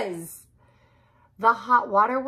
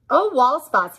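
laughing; 5 semitones higher, 6 dB louder than usual. A narrator's reading. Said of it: "he laughed".

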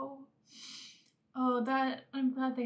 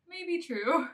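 laughing; 5 semitones higher than usual. Real, not acted. Laughs at joke.

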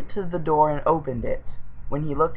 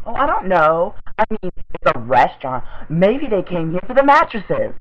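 sarcastic; 3 semitones higher, 5 dB louder than usual. Real, not acted. Sarcastic reply.

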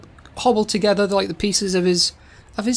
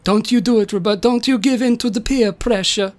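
lightly voiced pleading Italian old man; Da Vinci voice; 2 semitones higher than usual. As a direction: warn him off with a hint of Italian. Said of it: "Da Vinci's like".

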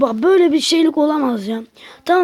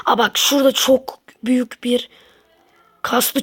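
whisper. Real, not acted. Spots big snake, hushed.

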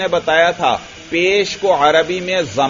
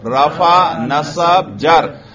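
emphatic word-by-word recitation; repetition drill; 3 dB louder, much slower than usual. Shown as a demonstration. Teacher drills students on the three case names, repetition drill. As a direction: call out each term for students to repeat. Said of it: "फिर दोहराओ".

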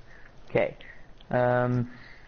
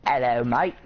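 hammed-up Australian hello; mock Australian accent; 4 dB louder than usual. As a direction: put on a goofy Australian accent. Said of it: "stupid Australian accent".

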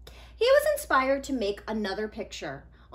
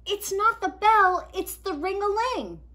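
put-on higher, louder eager boy; Nico explaining; 9 semitones higher, 7 dB louder than usual. Nico explaining his drawing to friends, eager and louder. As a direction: insist patiently.

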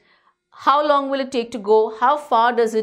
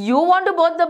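shocked question; 5 semitones higher, 3 dB louder, much faster than usual. Retold or imitated. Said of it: "He was shocked".

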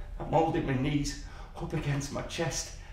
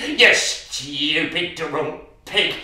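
angry insult; 6 dB louder, slower than usual. Acted. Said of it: "she screams at him".

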